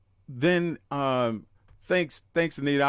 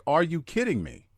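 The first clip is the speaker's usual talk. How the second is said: incredulous; 5 semitones higher than usual. Retold or imitated. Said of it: "I wasn't that nice about it, but I was like".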